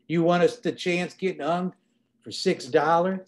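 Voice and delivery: reading aloud with voiced characters; story narration. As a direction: read the scene, giving each man his voice. Author reads a book scene aloud.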